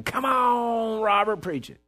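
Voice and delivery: stretched high-pitched egging-on; mock heavenly scream. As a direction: imitate a screaming crowd without the volume. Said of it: "heaven is just screaming".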